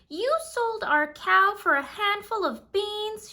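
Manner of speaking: high, loud, dismayed outburst; mother shouting at Jack over the beans; upset mother crying out. A narrator's reading. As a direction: scold Jack at the top of your voice. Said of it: "she cried".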